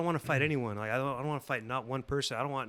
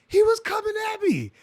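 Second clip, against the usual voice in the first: high, loud defensive shout; yelling back at people screaming at him; retold yell; 11 dB louder than usual. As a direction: shout it back at the crowd in your face. Yelling back at accusing crowd.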